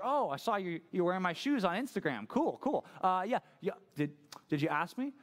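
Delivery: lightly acted indignant sibling; mock sisterly annoyance. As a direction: feign cool while calling out the borrower. Acted sisters' quarrel over borrowed shoes.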